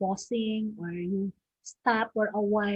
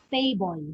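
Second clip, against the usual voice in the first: TA stressed in "Table"; stress on first syllable. Shown as a demonstration. Teacher repeating the example word, first-syllable stress. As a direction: say "Table" alone, weight on TA. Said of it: "impact is on the first syllable".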